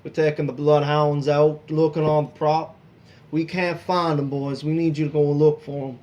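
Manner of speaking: a hint of Southern charm, pleading; heavy southern accent. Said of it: "he greets you in, in a heavy southern accent".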